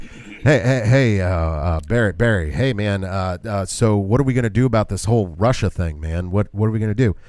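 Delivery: put-on mumbled stammering old-man ramble; Biden impression. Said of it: "it's more like".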